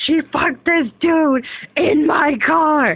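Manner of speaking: high, loud and slow, breaking into a laughing cry; shocked laughing cry; half-laughing outburst. Retold or imitated. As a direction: blurt it out half laughing, half crying in disbelief. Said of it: "I'm like".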